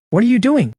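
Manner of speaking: domanda sorpresa, voce molto più alta; surprised. Acted. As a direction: colto alla sprovvista, sale di tono. She suddenly grabs his sleeve.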